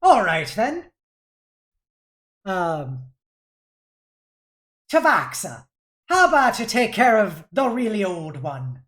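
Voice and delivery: lightly voiced captain, a shrugging all right then; offhand captain giving an order; casual shrug. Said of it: "he kinda shrugs and goes".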